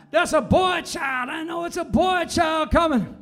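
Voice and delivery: mild mock yell. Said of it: "I hear a man yelling".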